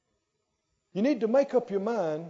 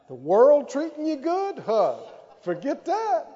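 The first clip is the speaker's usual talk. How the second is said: higher, louder, laughing scoff; 6 semitones higher, 5 dB louder than usual. Real, not acted. Preacher scoffs at the world's greeting, laughing. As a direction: brush the question off laughing.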